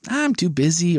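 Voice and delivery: mock put-upon excuse, pitch lifted; whiny excuse. Host voicing people who discard opportunities, mock whine. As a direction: make a mildly whiny excuse.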